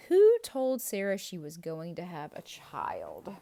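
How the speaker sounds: asked out loud, projected; loud quiz question. Shown as a demonstration. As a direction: call the question out to the class. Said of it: "quiz question asked twice".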